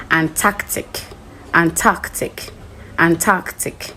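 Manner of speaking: Antarctic in a British accent, with a non-rhotic ant-ARK-tic; British pronunciation. Shown as a demonstration. Teacher showing students the British accent: Antarctic. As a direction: Antarctic as a British or Australian speaker says it. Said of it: "with the British and Australian".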